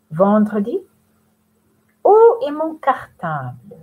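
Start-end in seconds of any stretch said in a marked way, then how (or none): 2.0-3.8 searching question, higher and louder; voicing Danny. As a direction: ask like a boy looking for his schoolbag. Danny searches for his bag.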